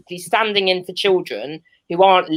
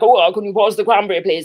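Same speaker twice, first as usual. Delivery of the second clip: hammed-up posh boyfriend accent; lightly mock 1940s posh British pilot; ridiculously posh; 3 semitones higher, 3 dB louder than usual. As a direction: put on a stupidly posh voice. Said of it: "why I'm putting on that accent".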